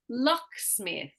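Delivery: LOCK stronger, smith lighter in locksmith; stress on first half. Shown as a demonstration. Teacher giving another example, stress on LOCK in locksmith. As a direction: say locksmith leaning slowly on LOCK. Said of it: "there's more emphasis in that first".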